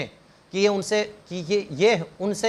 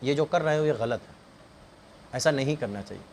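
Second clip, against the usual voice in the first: softer, lower voice, calmly advising a son; serious gentle counsel; 6 semitones lower, 4 dB quieter than usual. Acted. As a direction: talk it through quietly like a caring father. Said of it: "اس کو سنجیدگی سے سمجھائیں". (نرمی اور سنجیدگی سے سمجھاتا باپ)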